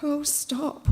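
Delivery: soft anxious plea; whispered. A narrator's reading. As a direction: hush her urgently. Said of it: "whispered Mary".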